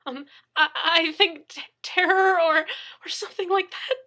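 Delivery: high, broken, tearful words; crying and blubbering. Acted. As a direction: sob through the words. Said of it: "crying in earnest".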